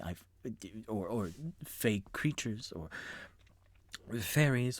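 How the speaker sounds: nervous stammer. Acted. Panicked stammer to his friends.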